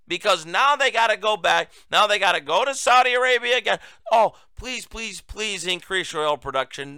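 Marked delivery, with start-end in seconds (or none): 4.1-7.0 mock begging that drops softer; starts with a whiny "oh", then softer pleas; pleading Biden. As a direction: plead in a mocking little voice. Mocking Biden begging Saudis again.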